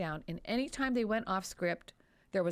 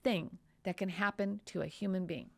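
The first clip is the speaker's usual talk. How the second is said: indignant outburst; 2 semitones higher than usual. Retold or imitated. Voicing the doctor's feelings to the lawyer, indignant. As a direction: play the doctor's anger at the stupid question. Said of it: "I'll, I'll do this part".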